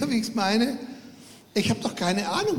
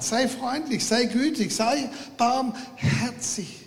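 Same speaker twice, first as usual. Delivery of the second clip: God's gentle voice; 5 semitones higher, slower than usual. Retold or imitated. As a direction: let each word linger, gently. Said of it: "wie er sagt". (sanft und langsam wie die Stimme Gottes)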